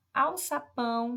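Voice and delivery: "Alçapão" said slowly, weight on PÃO; stress on final syllable. Shown as a demonstration. Teacher reading out an example word, final PÃO of "Alçapão" stressed. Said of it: "a sílaba mais forte é o pão".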